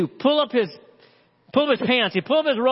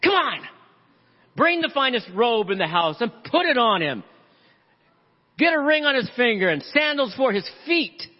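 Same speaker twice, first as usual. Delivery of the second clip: excited father; 3 semitones higher than usual. Acted. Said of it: "Can you imagine the excitement in that voice?".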